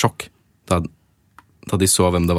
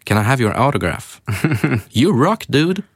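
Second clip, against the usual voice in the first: put-on higher, eager starstruck teen; fanboy excitement; 5 semitones higher than usual. Teenager asks a rapper for an autograph, gushing starstruck fan. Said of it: "smile som en idiot".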